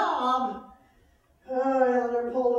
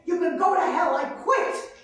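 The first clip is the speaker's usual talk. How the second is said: furious quitting shout; 4 semitones higher, 5 dB louder than usual. Acted. Quitting on the boss.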